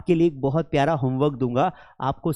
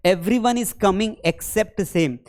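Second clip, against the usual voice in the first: slow example; much slower than usual. Shown as a demonstration. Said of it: "example sentence".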